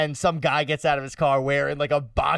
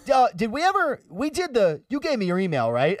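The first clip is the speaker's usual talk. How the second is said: excited cashier greeting, pitched way up; joyful reunion; 6 semitones higher than usual. Retold or imitated. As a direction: gush like he's seeing an old friend. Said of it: "He goes".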